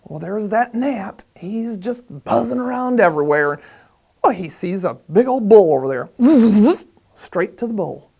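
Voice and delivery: animated, swooping pitch with loud buzzing words; lively fable storytelling. Acted. Storyteller trying out the gnat fable, animated. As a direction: play up the little gnat's busy journey.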